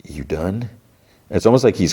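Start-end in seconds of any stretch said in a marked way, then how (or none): 0.0-0.7 much softer, gentle check-in; softly. Retold or imitated. Ghoul checking on sick Lucy, soft and quiet. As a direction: ask it barely above a murmur. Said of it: "And, like, softly".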